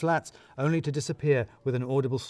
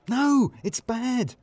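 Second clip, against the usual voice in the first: high and slow, stretching out the no; slow, emphatic correction from an excitable boss; drawn-out high correction; 11 semitones higher, 5 dB louder, much slower than usual. Acted. Richard correcting the narrator.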